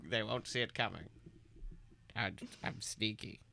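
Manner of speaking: sneaky villain whisper. Acted. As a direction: hiss it under your breath.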